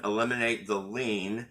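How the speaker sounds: "lien" set apart with deliberate emphasis; deliberate stress on lien. Real, not acted. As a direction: lean on the word "lien" on purpose. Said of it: "I'm emphasizing the word lien deliberately".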